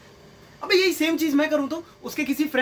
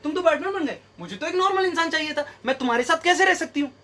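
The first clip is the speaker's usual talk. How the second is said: higher-pitched, lightly caricatured woman's complaint; mock complaining girlfriend; 4 semitones higher than usual. Girlfriend rejecting the man who became Batman, mock complaining. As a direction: put on a girlfriend's protest, pitched up. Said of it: "उस दिन बोली".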